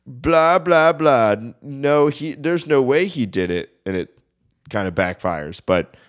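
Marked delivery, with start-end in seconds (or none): 0.1-3.7 high, brushing it off; dismissive. Retold or imitated. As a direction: wave it away dismissively. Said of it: "the principal's like".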